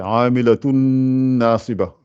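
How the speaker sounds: amilatun nasiba, the tanwin melted straight into nun; merged nun. Shown as a demonstration. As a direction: join amilatun into nasiba without a break. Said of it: "vous attaquez directement ce nun-là".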